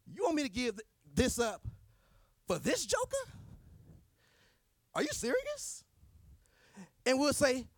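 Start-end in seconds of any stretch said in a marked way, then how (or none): 0.1-5.8 mock indignant squeal, much higher; a high, outraged whine at God; whiny protest. Mocking a whiny self-centred believer.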